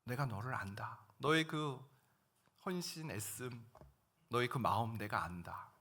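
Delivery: a hint of God's gentle voice; God's comforting voice. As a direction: console a grieving servant gently. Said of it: "이렇게 들린 거예요".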